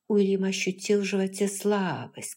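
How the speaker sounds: plain reading voice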